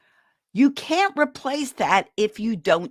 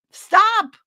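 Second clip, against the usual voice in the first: sudden stop; 13 semitones higher, 8 dB louder than usual. Acted. Tells stressed parent to stop.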